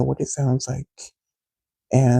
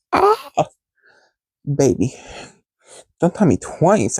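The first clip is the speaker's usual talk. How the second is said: mock eager flirt; 2 semitones higher, slower than usual. Eager reply to his request.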